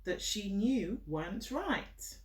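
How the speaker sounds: slow, gentle storybook reading, each phrase set apart; reading to a child. Acted. Mother reading a picture book to her child, gentle storytelling. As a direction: read it out like a bedtime story for a little one.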